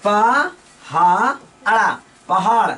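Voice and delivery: पा, हा, अड़ा, पहाड़ spelled out slowly, sound by sound; syllable by syllable. Shown as a demonstration. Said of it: "जैसे लिखना होता है पहाड़". (पहाड़ को धीरे-धीरे अक्षर-अक्षर बोलना)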